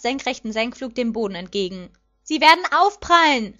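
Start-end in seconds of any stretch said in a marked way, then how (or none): 2.2-3.6 high, loud cry of warning; alarmed shout. A narrator's reading. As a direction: call out as a crash looms. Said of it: "rief Dad".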